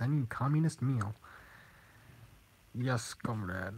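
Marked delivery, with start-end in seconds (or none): 2.7-3.7 put-on Russian accent. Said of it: "that was not a Russian accent".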